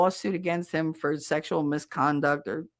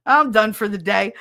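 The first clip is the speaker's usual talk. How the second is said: mock happy sign-off; happy announcement; 3 semitones higher, 5 dB louder than usual. Caller imitating a clerk finished for the day, happily. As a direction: imitate a pleased clerk, a bit louder. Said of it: "You sound so happy".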